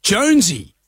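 mild mock yell, rising on the repeat; half-hearted imitation of calling a name; imitated yelling out. Lady yelling at her cat, mild mock yell. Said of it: "a lady was yelling out".

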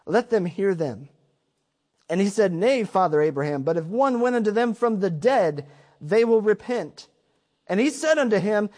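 measured King James Bible reading; scripture reading. Acted. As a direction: read the verses like holy text. Reads the scripture passage aloud.

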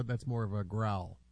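low, very soft murmur; secretive near-whisper; hushed podcast voice. Pretend. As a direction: keep it down as if whispering.

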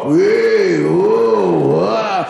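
wobbling under the weight; straining alarm. Retold or imitated. Pile rocking, about to collapse.

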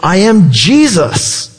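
slow, weighty declaration, lightly voiced; a slowly intoned heavenly announcement. Voice from heaven answering Paul, slow and deliberate. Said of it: "the voice says".

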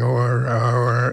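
a light, mooing "O R" as the west country says yes. Retold or imitated. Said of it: "sounds like cows mooing".

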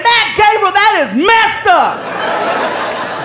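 high, drawn-out complaint; mock aggrieved protest. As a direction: imitate a pranked friend crying foul. Pranked friend protesting.

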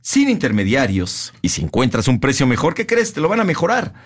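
measured announcer delivery with punched key words; radio ad read. Real, not acted. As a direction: sell it like a sponsor spot. Reads the scripted furniture ad.

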